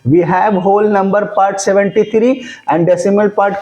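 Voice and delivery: very slow, word by word, for writing down; slow dictation. Shown as a demonstration. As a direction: dictate it so students can copy. Dictating definition to students. (धीमे-धीमे लिखवाते हुए)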